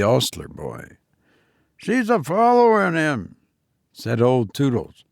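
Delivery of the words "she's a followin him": put-on old cockney man. A narrator's reading. Old Toodles.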